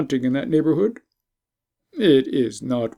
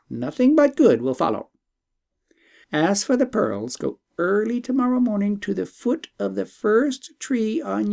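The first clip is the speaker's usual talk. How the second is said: a lightly voiced wise bird; talking bird; 7 semitones higher than usual.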